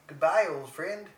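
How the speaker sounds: slow, lightly attempted Canadian accent. Co-host echoing Trudeau's farewell in a tentative Canadian accent. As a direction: draw out a mock-Canadian farewell. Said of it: "that's a Canadian accent".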